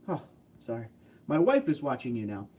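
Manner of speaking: ordinary talk, nothing marked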